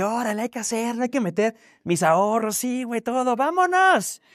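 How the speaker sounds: gung-ho, half laughing, betting his savings; excited self-quote. Retold or imitated. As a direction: fire yourself up to go all in. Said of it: "Yo dije".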